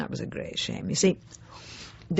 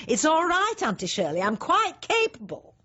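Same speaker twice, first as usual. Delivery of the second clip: icy politeness; 13 semitones higher than usual. Retold or imitated. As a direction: sweetly put her in her place. Snatching knife from Auntie Shirley.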